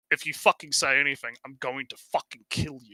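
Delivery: low, hushed menace; quiet threat. Retold or imitated. Receptionist threatens guild head in the alley, hushed menace. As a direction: threaten him under your breath.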